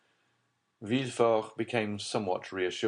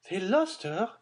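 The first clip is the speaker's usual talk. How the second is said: dismayed Baroness; 11 semitones higher than usual. A narrator's reading.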